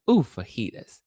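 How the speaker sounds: a hint of the sing-song "Ooh"; lightly voiced wacky friend; light wacky catchphrase. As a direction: toss off the catchphrase playfully. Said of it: "ever since then said".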